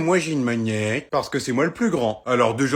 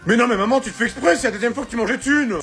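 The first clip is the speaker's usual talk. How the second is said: raging gamer; 8 semitones higher, 3 dB louder than usual. Acted. Kid raging at Mario Kart.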